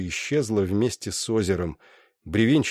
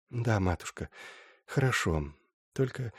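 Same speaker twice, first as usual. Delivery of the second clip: softer, faint tired reply; weak, tearful daughter; 7 dB quieter than usual. Acted. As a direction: barely answer through tears. Weeping daughter answers softly.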